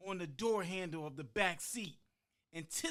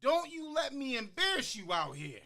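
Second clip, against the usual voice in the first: louder, higher mock-stern warning; stern father warning; 8 semitones higher, 5 dB louder than usual. Father teasing his thirteen-year-old son, mock-stern and loud. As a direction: playfully scold the embarrassed boy.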